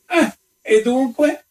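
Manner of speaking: high, slow triumphant exclamation. A narrator's reading. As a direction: pounce in triumph, pitch soaring. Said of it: "esclamò il visitatore in tono di trionfo".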